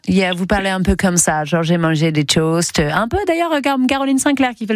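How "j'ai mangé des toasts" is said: French with an English accent. Shown as a demonstration. Host showing contestant how to tell breakfast in an English accent. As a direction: put on a lower English accent. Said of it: "Avec un accent anglais".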